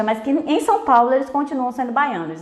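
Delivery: ordinary talk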